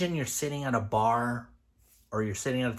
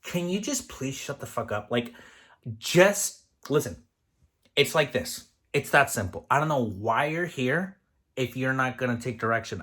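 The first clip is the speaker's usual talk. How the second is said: blunt, exasperated rant at a stubborn cook; fed-up chef telling off an old cook, exasperated; venting frustration. Shown as a demonstration. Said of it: "I'm gonna show you how it makes me feel".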